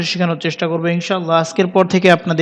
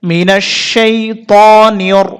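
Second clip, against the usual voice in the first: slow, stretched শাইতানির with heavy r; slow recitation; 3 dB louder, much slower than usual. Shown as a demonstration. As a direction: recite it slowly, drawing out the vowels. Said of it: "বলতে হবে নিয়র". (ধীরে টেনে তিলাওয়াত)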